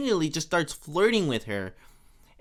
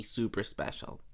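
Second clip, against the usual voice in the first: hushed Marge; 6 semitones lower, 11 dB quieter than usual. Retold or imitated. Marge talking her way out of the perfume gift, whispering. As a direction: drop to a soft breathy whisper.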